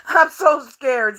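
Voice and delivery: slow, sarcastic fake fear; mock scared. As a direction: pretend to be terrified, slowly. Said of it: "Yeah, okay, I'm scared".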